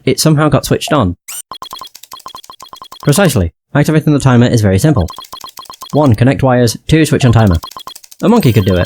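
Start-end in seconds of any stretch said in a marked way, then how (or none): 3.0-8.9 monotone synthesized speech; flat text-to-speech voice; robot voice. Acted. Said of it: "He sounds exactly like a robot".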